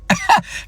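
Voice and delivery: sudden high laugh; burst of laughter. Real, not acted. Laughing at own story.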